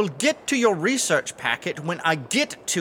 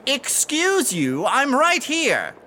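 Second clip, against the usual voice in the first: indignant; 5 semitones higher, much slower than usual. Acted. Boss overhears insult.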